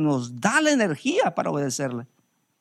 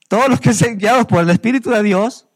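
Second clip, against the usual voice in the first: proclaimed verse; 3 semitones higher, 5 dB louder than usual. Real, not acted.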